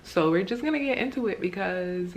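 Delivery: slight lisp from retainer; talking with a retainer in; wearing a retainer. Real, not acted. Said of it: "If I have a lisp, it's because I have my retainer in".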